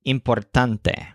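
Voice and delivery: importante with tan stressed, said slowly; slow importante, tan the peak. Shown as a demonstration. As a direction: lean on tan in importante: im-por-TAN-te. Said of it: "it stresses the syllable taunt".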